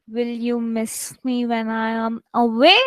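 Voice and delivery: even read until "away" rises sharply; question intonation. Shown as a demonstration. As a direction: hold it level, then swing "away" up. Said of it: "it should sound like a question".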